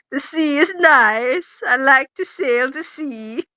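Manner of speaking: dictating the line. Shown as a demonstration.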